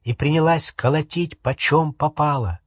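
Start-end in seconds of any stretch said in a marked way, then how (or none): none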